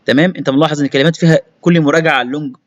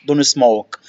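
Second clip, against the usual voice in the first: quick. Shown as a demonstration. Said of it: "بس بسرعة بقى".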